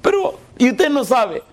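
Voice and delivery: high, slow retold disbelief; laughing and crying. Troubled man questioning the pastor, half laughing, half crying. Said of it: "se ríe y llora y dice".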